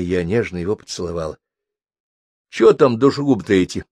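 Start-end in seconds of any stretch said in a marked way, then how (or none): 2.5-3.8 good-natured curiosity, pitched up and lively. A narrator's reading. Mitya casually asking about the killers, good-natured and raised. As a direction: ask amiably, raised voice. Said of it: "добродушно поинтересовался Митя".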